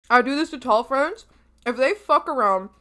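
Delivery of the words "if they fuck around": talking with mouth full. Real, not acted. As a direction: speak through a mouthful. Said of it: "sorry, I'm eating with my mouth full".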